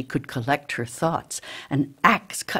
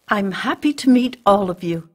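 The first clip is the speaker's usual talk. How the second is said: higher, louder, sociable hello; eager greeting; 5 semitones higher, 7 dB louder than usual. A narrator's reading. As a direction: greet them all eagerly, voice lifted. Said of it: "hadn't had any conversation".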